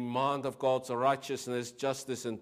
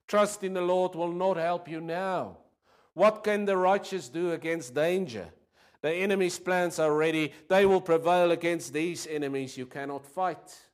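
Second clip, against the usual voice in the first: raised, pressing voice of fearful advisors; urgent advisors; 6 semitones higher, 7 dB louder than usual. Acted. Advisors urging David to flee, loud and pressing. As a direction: push the warning hard and loud. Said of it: "said David's, David's advisors".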